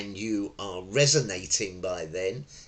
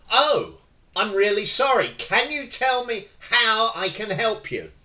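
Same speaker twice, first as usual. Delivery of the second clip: loud, higher eager reply; match the angry customer's volume, helpfully; matched energy; 10 semitones higher, 6 dB louder than usual. Shown as a demonstration. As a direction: meet their energy head on. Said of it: "I didn't go".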